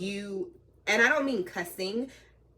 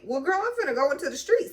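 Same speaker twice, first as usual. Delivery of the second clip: higher, louder exasperation; exasperated aside; 8 semitones higher, 4 dB louder than usual. Retold or imitated. Driver to herself while pulling up, exasperated. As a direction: say it with rising exasperation. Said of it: "I'm like".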